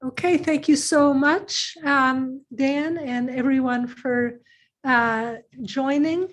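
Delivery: slightly hoarse, lost voice. Real, not acted. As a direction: speak with a hoarse voice. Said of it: "I lost my voice yesterday".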